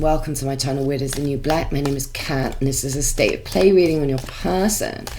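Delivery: blocked nose, stuffy voice; talking through a blocked nose; congested. Real, not acted. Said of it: "Sorry if I sound a bit congested".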